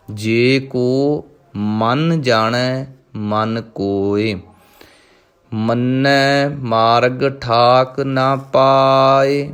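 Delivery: slow, measured recitation of scripture; Gurbani recitation. Shown as a demonstration. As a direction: intone each line with devotion. Recites Gurbani lines in lesson. (ਗੁਰਬਾਣੀ ਦਾ ਸਹਿਜ ਪਾਠ)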